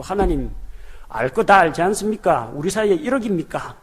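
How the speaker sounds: mock resentful grumbling at God, rising at the end; a hammed-up aggrieved protest; complaining prayer. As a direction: pretend to sulk and accuse. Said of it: "이런 식으로 원망해서는 안 돼요".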